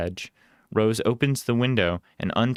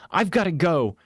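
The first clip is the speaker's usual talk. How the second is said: urgent call; 10 semitones higher, 3 dB louder than usual. Acted. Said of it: "she tosses at us".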